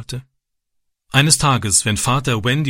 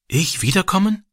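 shy; 8 semitones higher than usual. A narrator's reading. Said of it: "fragte er schüchtern".

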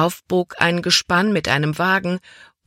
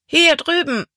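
put-on boy calling out; 12 semitones higher, 4 dB louder than usual. A narrator's reading. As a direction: hail a friend across a crowd. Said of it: "rief er".

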